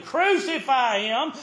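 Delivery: drawn-out mock crowd yell; a frenzied mob demanding it. Preacher voicing the mob yelling at Pilate. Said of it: "That's the way they were yelling".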